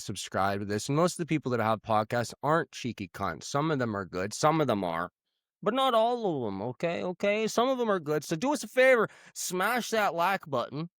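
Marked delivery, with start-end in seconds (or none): 5.6-10.9 lightly voiced Manchester accent creeping back; a hint of a Mancunian lad; a singer. Host slipping back into Manchester accent asking for likes. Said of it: "once the accents".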